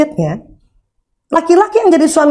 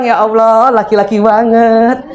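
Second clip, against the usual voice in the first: fond inner sigh; slower than usual. Acted. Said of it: "Dalam hati kita bilang".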